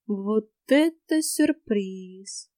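very slow, drawn-out surprise; slow, drawled ironic remark. Acted. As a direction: stretch every word out. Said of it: "протянула я".

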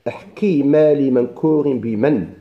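slow measured chant of the poem line; slow recitation of a grammar poem; reciting the verse. Shown as a demonstration. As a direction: intone the verse slowly, word by word. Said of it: "ثم قال المصنف".

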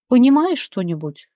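ordinary delivery

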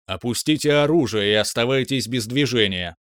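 lightly voiced machine command; a hint of a robot guard voice; booming metallic robot. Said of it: "Оглушительно прогремел металлический голос".

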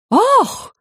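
very high, loud gasp of outrage; shocked cry. Acted. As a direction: nobles scandalized by the insult. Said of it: "закричали вельможи".

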